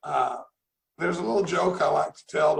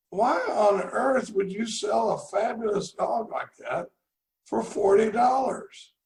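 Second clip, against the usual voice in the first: baffled; 4 semitones higher, slower than usual. Retold or imitated. Man baffled at the low price.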